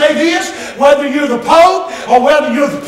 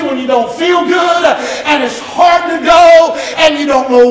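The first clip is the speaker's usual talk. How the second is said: preaching at full force; 3 semitones higher than usual. Acted. Pastor calling out to Miss Becky and the church, fervent preaching. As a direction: drive it home to the congregation like a revival preacher.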